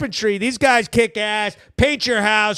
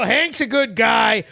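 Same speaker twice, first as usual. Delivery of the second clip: quoting a fan. Retold or imitated. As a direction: shout it like a proud fan. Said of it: "He go".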